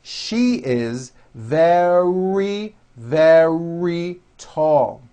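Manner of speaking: very slow, each very with a strong R; slow model sentence; nice and slow. Shown as a demonstration. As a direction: drag the sentence out for practice. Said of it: "Next one".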